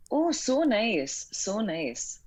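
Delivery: slow, high Midwestern "Oh, so nice"; Midwestern accent. Shown as a demonstration. Guest does a Midwestern accent on request, slow and high. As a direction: stretch the vowels in a Midwestern accent. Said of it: "Midwestern accent for you".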